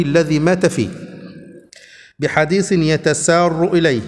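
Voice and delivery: slow, measured classical Arabic reading; formal hadith reading. Acted. Teacher reading hadith text to his class, slow formal reading. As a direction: read the chapter out slowly, phrase by phrase.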